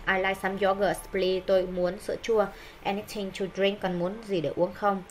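teacher acting out a canteen order, both roles; demo dialogue. Shown as a demonstration. Teacher demonstrating a canteen dialogue, lightly acted. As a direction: read both parts of the dialogue to the class. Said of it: "Ví dụ như thế này".

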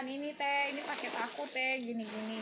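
calm, unhurried customer query; lightly acted polite customer; patient polite asking. Shown as a demonstration. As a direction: ask it gently, without anger. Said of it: "pelan-pelan".

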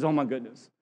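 breaking up mid-line; laughing. Real, not acted. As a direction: laugh through the words. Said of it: "He says".

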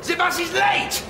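hammed-up German outrage; German rant. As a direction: explode over the late bus. Ranting about the late bus.

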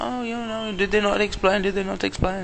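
high, mock-innocent boss voice. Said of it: "he was like".

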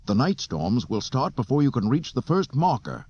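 warning. A narrator's reading. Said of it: "the deck officer warned".

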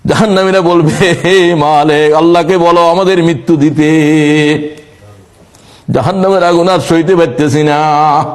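melodic waz preaching. Real, not acted. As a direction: chant it to a congregation, stretching final vowels. Chanted preaching. (সুরেলা ওয়াজ, শেষ শব্দে টান)

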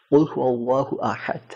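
কুল হু আল্লাহু আহাদ slowly, tongue held up on the palate; আরবি accent. Shown as a demonstration. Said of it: "জিহ্বাটাকে উপরে তালুর সাথে লাগায় রেখে". (আরবদের মতো জিভ তালুতে লাগিয়ে ধীরে আহাদ)

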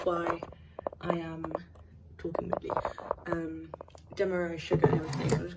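muffled by a spoon held in the mouth. Real, not acted. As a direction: talk with a spoon between the lips. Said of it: "I have a spoon in my mouth".

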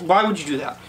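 rising from calm to sharp; scolding the dog. Real, not acted.

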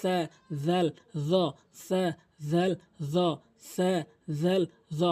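সা, জাল, জ lisped with tongue tip at front teeth; separate, soft th-sounds in সা, জাল, জ; light and soft. Shown as a demonstration. Teacher drills three letters, lightly and softly. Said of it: "হালকা নরম করে".

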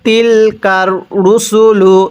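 রুসুলু said short, no drawn-out vowel, slowly; correct recitation. Shown as a demonstration. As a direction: read রুসুলু without stretching it. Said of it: "এই রুসুলু এখানে টান দিব না". (রুসুলু টান ছাড়া ধীরে পড়া)

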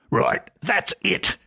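angry shout. A narrator's reading. Father rises from the table, mildly shouting. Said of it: "shouted the father".

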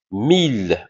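"Mille" drawn out with one l; single L. Shown as a demonstration. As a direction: model "mille" as if spelt with one l. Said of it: "comme s'il y a une seule L". (« mille » avec un seul l)

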